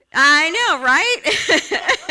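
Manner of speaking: big loud laugh; bursting into laughter. Real, not acted. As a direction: laugh out with the room. Laughing with congregation.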